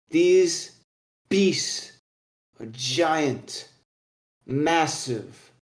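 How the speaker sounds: portentous telling with dramatic pauses; old dwarf storyteller. Acted. Old dwarf warning the hunters of giant beasts, portentous voice. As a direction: build the warning, pausing between weighty words.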